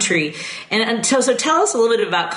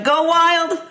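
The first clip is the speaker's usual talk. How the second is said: excited cheer; 10 semitones higher than usual. Real, not acted. Cheering for a sports team.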